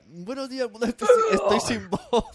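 high, loud, slow and laughing, faking a lost voice; mock hoarse radio greeting. Cohost teasing the host about tomorrow's show, high laughing mock greeting. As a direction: ham up a croaky morning show opening. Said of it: "mañana será".

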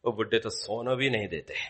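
fast mock grumble; grumbling child. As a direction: mutter like a sulky sleepy kid. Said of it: "exactly what our children will say".

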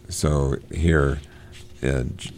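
ordinary delivery

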